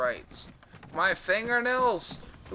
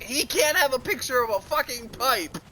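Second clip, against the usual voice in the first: higher-pitched retold complaint; indignant protest; 5 semitones higher than usual. Objecting to the class, indignant retold protest. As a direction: protest it as if outraged.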